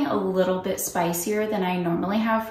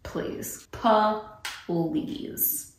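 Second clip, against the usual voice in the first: scoffing; 4 dB quieter than usual. Real, not acted. Dismissive reaction.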